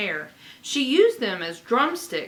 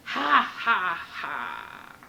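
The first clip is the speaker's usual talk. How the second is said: mean laughter; 3 semitones lower, much slower than usual. Acted. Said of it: "peal of mean laughter".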